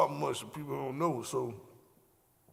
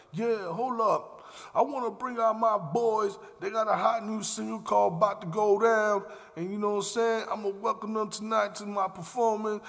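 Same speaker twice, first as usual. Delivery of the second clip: raised-pitch, slowed club MC bringing out the act; hype MC announcer; 6 semitones higher than usual. Retold or imitated. A rapper introducing the crew to the crowd, hyped MC voice. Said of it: "he just go like".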